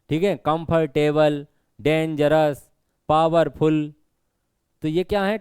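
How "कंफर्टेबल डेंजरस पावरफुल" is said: "कंफर्टेबल", "डेंजरस", "पावरफुल" pulled apart beat by beat; broken into syllables. Shown as a demonstration. Teacher shows students words needing a break, "कंफर्टेबल", "डेंजरस", "पावरफुल" said in pieces. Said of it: "तोड़ कर बोलना पड़ रहा है".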